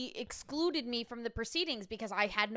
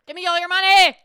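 loud hammed-up demand for cash; mock demand; 4 semitones higher, 16 dB louder, faster than usual. Friend jokes about suing the detective, loud mock demand. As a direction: bellow it like a greedy plaintiff.

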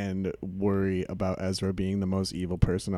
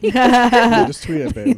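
high squeaky voice; 13 semitones higher, 11 dB louder, much slower than usual. Pretend.

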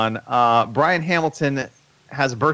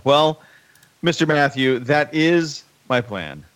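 evil robot villain; slower than usual. Acted. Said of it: "I sound like an evil robot planning to take over the world".

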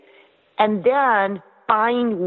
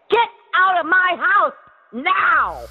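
commanding shout; 13 semitones higher than usual. Shown as a demonstration. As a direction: order them out like the boss. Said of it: "That's the way you gotta talk to them".

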